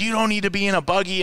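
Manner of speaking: high-pitched mock yell, no real volume; retold yelling. Race boss arguing with driver on the phone, mock yelling. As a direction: imitate someone yelling down at you. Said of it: "he was yelling at me".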